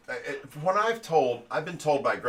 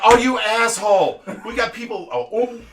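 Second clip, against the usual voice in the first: loud, higher, laughing through the insult; dad realizes the prank, laughing loudly; laughing yell; 9 semitones higher, 10 dB louder than usual. Retold or imitated. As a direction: laugh while cursing out your son. Pranked dad yells while laughing.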